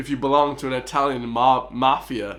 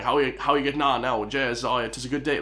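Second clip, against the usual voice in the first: imitating a thick West of Ireland accent; casual thick Irish greeting voice. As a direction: put on a broad rural Irish accent. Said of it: "they have that real thick kinda".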